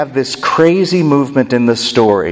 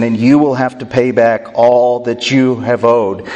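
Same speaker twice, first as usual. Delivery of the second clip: angry king. Acted. Angry king sentences the merciless servant, stern and measured. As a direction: pronounce the sentence coldly. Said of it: "the king is angry".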